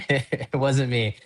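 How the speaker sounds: slow, laughing through the words; can't keep a straight face denying it; giggling, unconvincing denial. Retold or imitated. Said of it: "I, it wasn't me".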